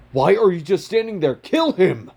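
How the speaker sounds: high, fast, urgent order; yelling. A narrator's reading. Sorcerer ordering his Sukuna to attack, yelling. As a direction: snap out a frantic command. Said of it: "started yelling at his version of Sukuna".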